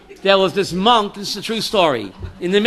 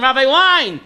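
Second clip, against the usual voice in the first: incredulous Shliach; 3 semitones higher than usual. Retold or imitated. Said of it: "The Shliach told him".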